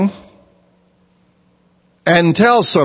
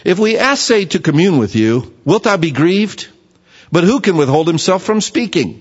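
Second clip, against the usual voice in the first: King James reading. Shown as a demonstration. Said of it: "let me read it in the King James".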